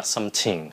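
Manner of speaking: SOMETHING with T in place of th; wrong th sound. Shown as a demonstration. Teacher showing how not to say it, mispronounced SOMETHING. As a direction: say SOMETHING as SOM-TING. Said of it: "Mình không có phát âm là".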